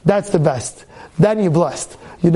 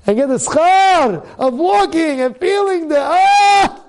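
rising higher and slower into a loud high cry; preaching the joy of walking to shul, building to a cry; ecstatic cry; 8 semitones higher, 3 dB louder, slower than usual. Real, not acted. Preacher's climax on feeling the mitzvah.

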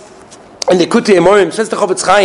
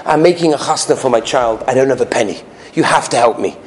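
lower, quick and humble plea; pleading poor man; 4 semitones lower, faster than usual. Retold or imitated. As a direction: sink low as you beg for help. Poor man begs rich friend.

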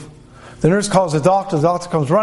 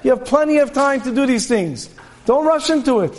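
high, mocking Yetzer Hara; scoffing tempter; 7 semitones higher than usual. Evil inclination dismissing a young man's projects, high mock scorn. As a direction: laugh off the young man's plans. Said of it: "the H R comes and says".

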